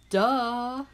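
loud mock-obvious "Duh!"; emphatic duh. Real, not acted. To listeners, answering her own question: loud playful scoff. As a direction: toss it off like it's obvious, loud.

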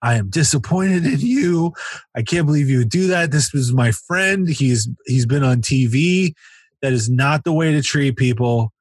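high-pitched mock telling-off; scolding. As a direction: emcee reprimanding the whole audience. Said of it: "he starts scolding the audience".

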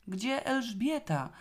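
high, drawn-out cry of panic; hysterical cry. A narrator's reading. Zosia calls for missing Elżbieta, high hysterical cry. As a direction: cry out in mild hysteria, pitch way up. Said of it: "krzyknęła histerycznie Zosia".

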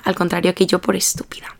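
hushed, under the breath; self-deprecating aside. Real, not acted. Grumbling at herself over skipping economics, hushed aside. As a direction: drop to a near-whispered aside.

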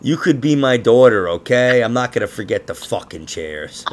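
scolding. Retold or imitated. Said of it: "I felt like telling her".

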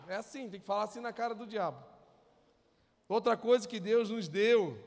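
ordinary talk

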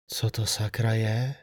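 hushed, slow frightened whisper. A narrator's reading. Friend at the pond whispering in shock. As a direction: breathe it out barely voiced. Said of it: "špitla".

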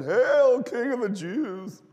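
loud, high mock acclamation; mocking hail. Soldiers kneel and mock Jesus as king, jeering shout. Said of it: "mocked him, saying".

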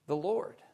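"Lord" set apart with a rise; stress on Lord. Shown as a demonstration. Preacher taking the psalm word by word, stress on "Lord". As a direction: give "Lord" its own weight, then stop. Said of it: "emphasize every word of this particular phrase".

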